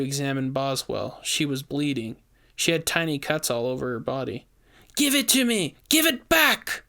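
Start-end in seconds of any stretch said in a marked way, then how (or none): 5.0-6.8 high frantic screaming demand; desperate witch. A narrator's reading. Bleeding witch screaming for the statuette, high frantic demand. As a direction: claw for it in pain.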